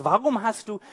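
scornful question through a laugh; older brother scoffing at David with a laugh; mocking laugh. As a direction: laugh him off as a nobody. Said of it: "Man hört den Spott in seiner Stimme".

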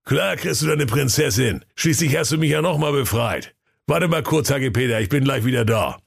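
high, mocking workman voice; cheeky workman, teasing him; cheeky sewer worker. (frecher Kanalarbeiter, spöttisch)

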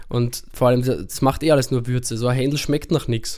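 talking around a lollipop; words round a lolly in the mouth; sucking a lollipop. Real, not acted. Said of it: "ich esse grad einen Lolli".

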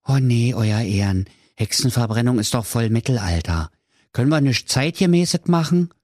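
lightly voiced sensitive hangman; a hint of a timid executioner. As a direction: plead gently with the king. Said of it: "der hochsensible Henker ... sprach". (leicht angedeuteter, zaghafter Henker)

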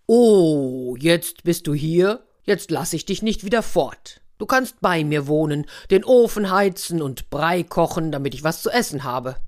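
the bear finds a guest to keep; lightly voiced bear, gruff and glad. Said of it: "Mascha war natürlich sehr erschrocken".

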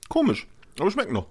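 talking with a mouthful of nuts; mukbang eating. Real, not acted. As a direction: chew and talk at once. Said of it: "Hört man auch".

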